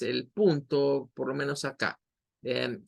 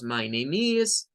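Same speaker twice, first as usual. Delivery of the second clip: slow model phrase; 2 semitones lower, slower than usual. Shown as a demonstration. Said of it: "Entonces ahí tendríamos".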